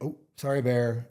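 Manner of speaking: light, sheepish "oh sorry", rising up; apologetic to a bear. Shown as a demonstration. Hiker calmly apologizing to a grizzly, sheepish and light. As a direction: back off politely, no threat. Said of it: "it's the intonation of your voice".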